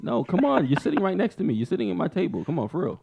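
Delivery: pleading mock fangirl; a singer. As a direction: wheedle playfully as a keen admirer. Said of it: "I'm Rita".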